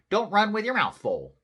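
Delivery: loud, high holler; hollering mama. A narrator's reading. Mama hollers at her running kitty boy, hollering. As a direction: call out loudly to a child. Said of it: "hollered Mama".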